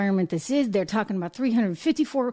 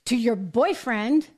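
mock disbelief; 5 semitones higher than usual. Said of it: "And you're like".

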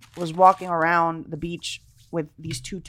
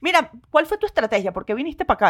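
quick Spanish; 6 semitones higher, much faster than usual. Retold or imitated. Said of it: "immediately I went to Spanish".

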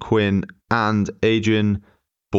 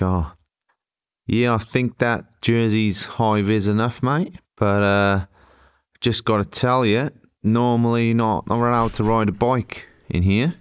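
imitating an Aussie guard, rising phrase ends; drawn-out mock Australian officiousness; put-on Australian accent. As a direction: do a shaky-quality amateur Australian accent. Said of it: "How's this accent coming on".

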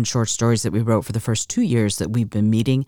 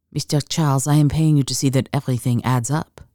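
put-on lightly French-accented, understated purr. Woman reminding her accountant what he is paid for, purring. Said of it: "she purred".

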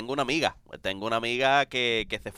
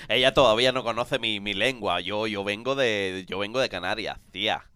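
put-on Canarian Spanish accent; 2 semitones lower than usual. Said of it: "si te toca un personaje español".

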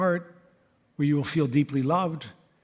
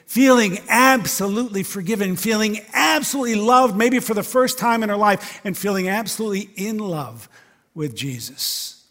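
rising fervor; 4 semitones higher, 5 dB louder than usual. Acted. Climactic sermon build.

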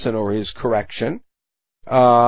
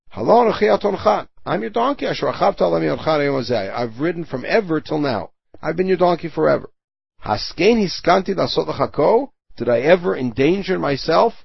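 higher, plaintive donkey voice; pleading donkey; 3 semitones higher than usual. Acted. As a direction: plead like a loyal hurt donkey. Teacher voicing the pleading donkey.

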